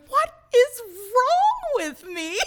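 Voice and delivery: high, slow, laughing self-mockery; mock despair through laughter; laughing at herself. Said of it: "and I'm going".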